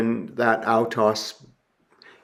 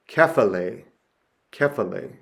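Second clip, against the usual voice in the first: "kephale" as keh-fah-lay, carefully sounded; accent demonstration. Shown as a demonstration. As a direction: model "kephale" syllable by syllable. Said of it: "Or the grave is".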